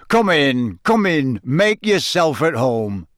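hearty, cheerful welcome; happy Bagman. A narrator's reading. Bagman welcoming Harry into the tent, happy. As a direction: usher him in happily. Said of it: "said Bagman happily".

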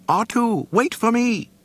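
high, loud frantic call; panicked droid call. Acted. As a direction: call out after a friend. C-3PO calling after R2.

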